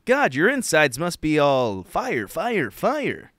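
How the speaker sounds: lightly voiced shocked old white guy; hint of a 1950s white man. His half-white side reacting to green sauce, lightly voiced. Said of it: "my half-white side went".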